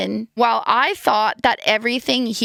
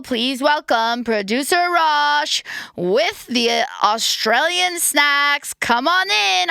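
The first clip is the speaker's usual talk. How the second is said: announcer voice; 6 semitones higher, slower than usual. Acted. Announcing producer on camera.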